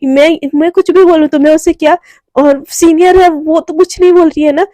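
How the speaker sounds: angry. Acted. Anaya answering Priyanka's jab, mildly angry. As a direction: snap back at the rival with understated irritation. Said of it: "एकदम गुस्से से प्रियंका की तरफ देखती है".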